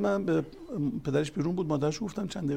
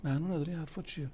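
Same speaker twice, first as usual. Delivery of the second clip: dismissive father; 3 semitones higher, 6 dB quieter, faster than usual. Retold or imitated. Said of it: "بابا حرفش بود".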